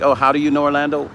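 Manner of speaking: quick, light and friendly question; friendly curious ask. Shown as a demonstration. Host shows trolls the polite way, friendly. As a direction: ask it like you're curious, not attacking. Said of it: "Wouldn't it be better to ask".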